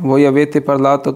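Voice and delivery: very slow, each Italian word laid out clearly; slow model reading. Shown as a demonstration. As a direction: read it slowly for learners to copy. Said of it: "teacher models Italian phrase". (धीरे-धीरे साफ़ उच्चारण)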